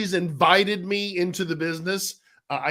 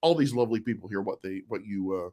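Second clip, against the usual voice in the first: game show announcer. Acted. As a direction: introduce the guest like a TV host. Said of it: "You sound like a game show announcer".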